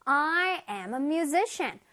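I am a musician, said very slowly and clearly; teacher modelling the sentence slowly; slow model sentence. Shown as a demonstration. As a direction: read each word slowly for children to copy. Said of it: "그래서 한번 다시 보자".

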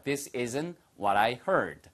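very slow, clear model sentence; slow teacher demo. Shown as a demonstration. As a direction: say it slowly so they can copy. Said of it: "your turn".

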